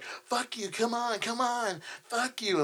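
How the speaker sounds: high, mocking woman's voice; mocking drunk woman.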